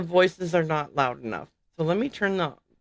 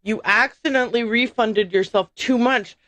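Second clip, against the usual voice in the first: higher, fast-talking scam caller; mock panicked scammer; 4 semitones higher than usual. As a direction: play a frantic fake clerk. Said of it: "you're gonna say to me".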